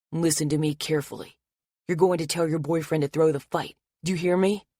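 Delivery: pin her down with every word; menacing attacker. Acted. Attacker with a blade warning Anna, menacing.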